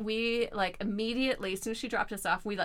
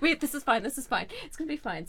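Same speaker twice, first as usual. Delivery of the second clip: faking sober; 4 semitones higher, faster than usual. Retold or imitated.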